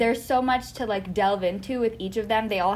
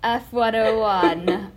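announcer voice; much slower than usual. Shown as a demonstration. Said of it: "I was trying to sound like the".

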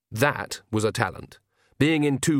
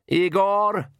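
high, raised call for a servant; shouted summons; 8 semitones higher, 4 dB louder than usual. A narrator's reading. The Count summoning Igor, shouting. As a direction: call the name out imperiously. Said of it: "he shouted".

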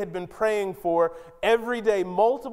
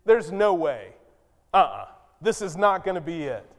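There's no way, firm and dismissive; flat refusal. Acted. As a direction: shut the idea down. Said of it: "What he's saying is".

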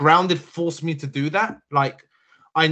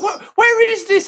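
high, loud, confused whine; clueless player voice; 10 dB louder than usual. Retold or imitated. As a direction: whine it like a lost gamer.

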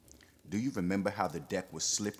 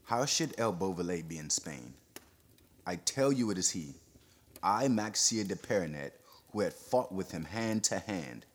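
urgent, jostling words. Acted. Perronet urging the crowd to seize him, agitated. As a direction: press the accusation urgently. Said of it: "words seemed to jostle one another".

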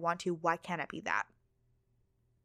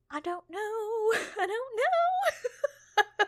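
much higher, drawn-out laughing "don't know"; helpless laughing; much slower than usual. Real, not acted. Stumped by manifesting the past, helplessly laughing. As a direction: squeal it through real laughter. Baffled, laughing at own question.

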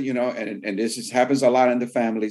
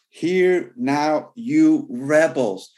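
a stern mock rebuke, dragged out; slow, stern calling out of rebels; angry rebuke; 3 semitones higher, 3 dB louder, much slower than usual. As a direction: scold them like an angry prophet. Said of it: "'cause he was upset. He was angry".

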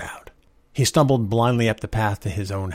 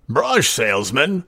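slow, higher, scornful question; sneering; 5 semitones higher, 4 dB louder, slower than usual. A narrator's reading. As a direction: drag out the words with drunken contempt. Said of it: "Art sneered".

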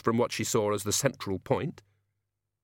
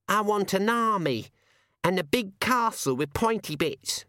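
put-on eager child; 9 semitones higher than usual. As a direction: blurt the wish list like an excited kid. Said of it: "and spoke quickly".

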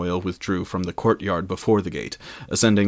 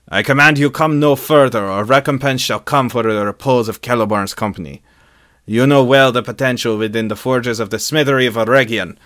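raised, louder defiant proclamation; solemn declaration, called out; 3 semitones higher, 7 dB louder than usual. A narrator's reading. Elven smith answers Sauron's demand, calling out a solemn declaration. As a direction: call it out high and commanding. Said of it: "in a solemn declaration, Celebrimbor's voice called out".

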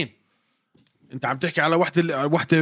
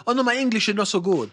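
slow, lightly put-on Brazilian-accented English; a hint of Brazilian accent, slowed down; mock Brazilian accent; 3 semitones higher, slower than usual. Mocking the fighter's Brazilian phase, in a light slow accent. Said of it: "برازيلي، برازيلي".

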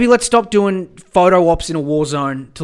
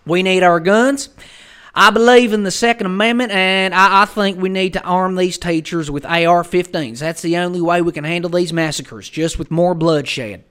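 mock gun-rights advocate; 3 semitones higher, 5 dB louder than usual. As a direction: parody an American gun believer, starting at full indignant volume. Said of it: "all these people being like".

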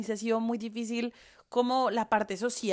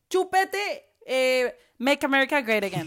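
mocking sneer; 3 semitones higher than usual. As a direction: sneer it like a smug local. Mocking hostile locals.

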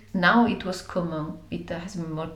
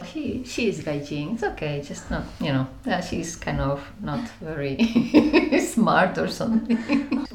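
patronizing. Retold or imitated. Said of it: "in a kind of patronizing way".

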